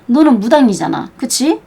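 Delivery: ordinary delivery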